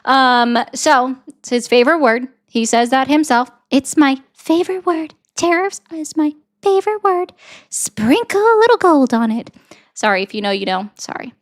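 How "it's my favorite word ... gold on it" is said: higher mock Trump, copying his rhythm; Donald Trump cadence. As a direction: boast like Trump in a raised put-on voice. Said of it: "but I can copy his cadence".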